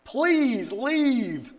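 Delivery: high, loud mock wife voice; a high-pitched teasing wife's jab; wife's retort. Wife shooting back by text, in a high mock voice. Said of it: "She says".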